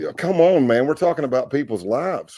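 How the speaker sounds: retold anger. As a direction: plead your case, mildly worked up. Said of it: "it made me so angry".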